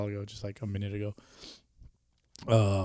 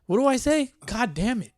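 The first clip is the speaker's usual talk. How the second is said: flustered outburst; 12 semitones higher than usual. Real, not acted. Losing his words mid-phrase.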